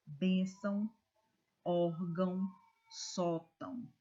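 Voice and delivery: first syllable punched in "Bênção", "órgão", "sótão"; stress on penultimate syllable. Shown as a demonstration. Teacher reading example words to students, penultimate syllable stressed. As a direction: lean hard on BÊN, ÓR, SÓ, letting each ending drop. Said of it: "a sílaba mais forte é a penúltima".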